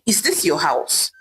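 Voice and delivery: mildly heated husband, steady pace; angry outburst. Acted. Husband turning on his wife, mild anger. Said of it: "Ame screamed angrily at his wife".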